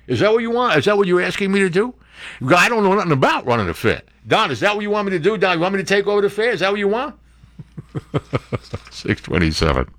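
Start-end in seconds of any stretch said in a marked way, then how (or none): 0.1-1.9 rapid-fire mock mobster; hammed-up wiseguy protesting the assignment; Goodfellas-style wiseguy. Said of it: "Goodfellas. You go down there". 2.5-7.2 higher, fast mock mobster; hammed-up mobster rising in protest; Goodfellas-style wiseguy.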